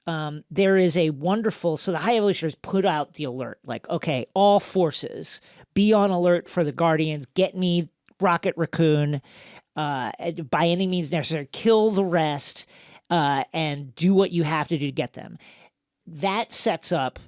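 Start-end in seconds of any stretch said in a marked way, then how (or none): 3.9-15.4 commanding villain. Retold or imitated. Villain voiced giving orders.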